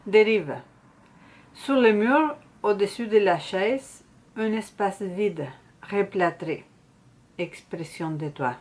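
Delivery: slow, measured reading with long pauses; poem recitation. Acted. Poet reads her workshop poem Dérive to viewers, slow poetry recitation. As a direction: recite line by line, letting each phrase settle.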